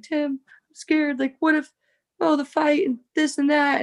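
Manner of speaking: scared. Retold or imitated. Waking at night, scared before fight.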